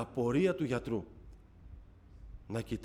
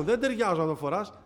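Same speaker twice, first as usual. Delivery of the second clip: retold motherly yell, higher pitched; μητέρα που φωνάζει; 6 semitones higher than usual. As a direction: call out like a scolding mother, mildly raised. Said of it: "Μου φώναζε η μητέρα μου". (φωνή μητέρας που φωνάζει)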